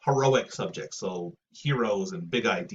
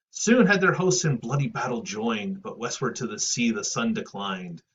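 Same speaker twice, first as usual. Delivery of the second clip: poem recitation. Acted. Teacher reads Virgil battle couplet aloud, declaimed. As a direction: read it as grand epic verse.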